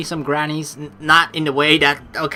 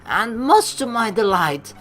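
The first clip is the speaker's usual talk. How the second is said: put-on higher, lilting French-accented teacher; 9 semitones higher than usual. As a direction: roll through it like a French gym leader. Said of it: "that was really butchered French".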